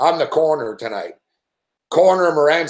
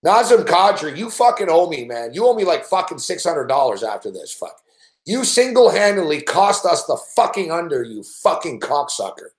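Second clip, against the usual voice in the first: swearing tirade at a player; angry rant. Real, not acted. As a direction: chew out the player who cost you money. Rant at a player over lost bet.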